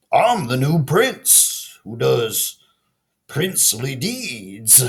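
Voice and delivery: slow, earnest announcement of princely deeds; proud frog prince. Acted. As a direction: announce yourself grandly but sincerely. Frog proudly introduces himself.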